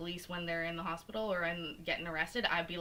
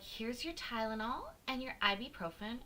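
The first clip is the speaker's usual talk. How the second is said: higher-pitched mock nurse voice; 5 semitones higher than usual. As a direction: imitate a nurse handing out pills. Mimics nurses handing out painkillers.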